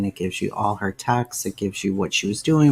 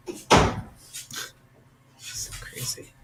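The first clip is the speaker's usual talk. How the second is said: whisper. Real, not acted. Aside about her daughter.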